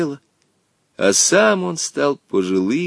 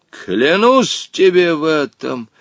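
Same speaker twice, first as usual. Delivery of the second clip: solemn vow; 4 semitones higher than usual. Acted. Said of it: "торжественно обещал Джин".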